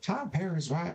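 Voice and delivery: very high, put-on cartoonish voice. Reading a line aloud in a Cotton Hill voice. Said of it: "I read that in the voice of Cotton Hill from King of the Hill".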